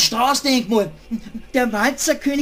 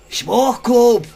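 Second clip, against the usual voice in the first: angry insult; 5 dB louder than usual. Acted. Rat insults rabbit.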